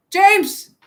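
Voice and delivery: loud, high burst on the name; exclaimed name. Real, not acted. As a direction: call out James's name sharply. Exclaims name of arriving James.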